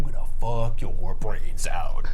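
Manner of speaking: slow, breathy whispered proposition; whispering. Retold or imitated. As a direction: whisper it slowly into an ear. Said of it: "she, like, whispers in his ear".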